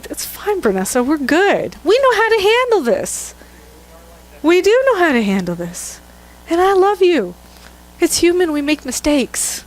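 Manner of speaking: kindly, forgiving tone, lightly acted; acted reassurance. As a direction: soothe a friend who slipped up. Acts out reassuring a friend.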